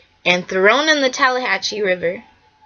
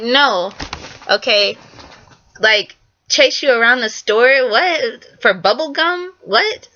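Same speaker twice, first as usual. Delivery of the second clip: incredulous disbelief; 3 semitones higher, slower than usual. Retold or imitated. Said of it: "I'm like".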